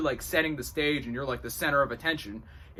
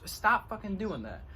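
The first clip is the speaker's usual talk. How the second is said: higher, slow irritated command; bossy, forceful; 6 semitones higher than usual. Real, not acted. To a spirit knocking wood off the roof, bossy telling-off. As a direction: tell off a nuisance, certain and defensive. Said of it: "It's very bossy, very defending, very certain".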